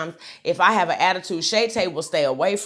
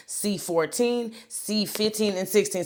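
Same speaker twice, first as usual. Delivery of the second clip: mock flustered counting; 5 semitones higher than usual. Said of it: "See how mad I am?".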